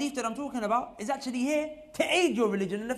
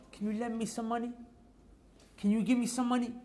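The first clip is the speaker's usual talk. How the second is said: softly voiced, embarrassed plea for money; embarrassed asking; 2 semitones higher, 6 dB quieter than usual. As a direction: ask quietly, as if humiliated to beg. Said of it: "most humiliating and embarrassing thing".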